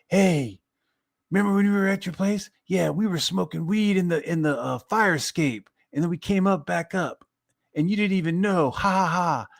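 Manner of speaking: high, mocking impression of the friend; mocking the guy. Friend at the wedding blurting out the story, mocking high voice. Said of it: "and he's like".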